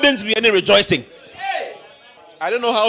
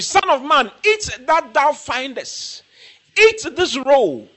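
raised commanding voice; 6 semitones higher, slower than usual. Acted. Voicing God's command to Ezekiel.

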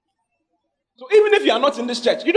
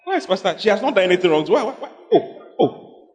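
congregation's protest. Retold or imitated. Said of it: "you were like".

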